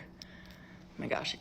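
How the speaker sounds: whispered, slow, savouring; hushed oh my gosh; breathy whisper of delight. Real, not acted. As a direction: sigh it out over a tasty bite. Savouring her snack.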